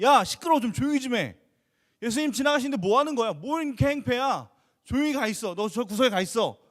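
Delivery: loud, rough rebuke, fast; scolding crowd. Retold or imitated. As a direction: snap at the beggar to shut up. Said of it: "분명히". (거칠고 크게 꾸짖는 군중의 목소리)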